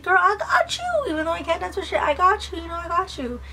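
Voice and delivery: put-on high-pitched, eager girl talk; eager high reassurance. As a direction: squeal it like a hyped best friend. Retold eager reply to friend.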